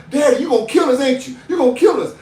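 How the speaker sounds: high, loud frightened sons' voices; scared sons. Retold or imitated. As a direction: play the boys creeping in, nervous. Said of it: "My four boys was inching up".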